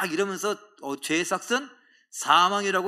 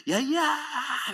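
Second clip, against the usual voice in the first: much higher, stretched-out call; drawn-out cheer; 10 semitones higher, much slower than usual. Retold or imitated. Retelling the basketball game, a drawn-out higher cheer. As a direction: hold the cheer long and high.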